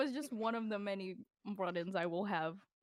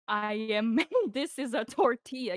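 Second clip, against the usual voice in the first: talking down; 6 dB louder than usual. Retold or imitated. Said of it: "talking to me like I was dumb".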